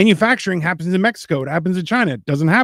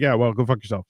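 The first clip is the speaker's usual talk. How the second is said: low, soft brush-off; lower, softer dismissive retort; dismissive mock voice; 7 semitones lower, 5 dB quieter, faster than usual. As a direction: shrug them off, low and quiet. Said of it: "They're like".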